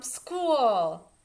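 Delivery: put-on a child's delighted shout on the way to school; cheering. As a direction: burst out with a happy hooray. Child cheering on first day.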